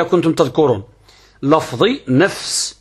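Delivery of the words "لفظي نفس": لفظي stretched very slowly so its فاء is heard clearly; drawn-out لفظي. Shown as a demonstration. Teacher showing students the فاء in لفظي, slowly. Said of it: "كلمة لفظي فيها الفاء".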